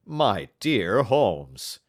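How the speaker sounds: slow, shocked protest; drawn-out scandalised objection; remonstrance. Acted. Watson protests at Holmes's slur on the wife, slowly. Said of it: "disregarding my remonstrance".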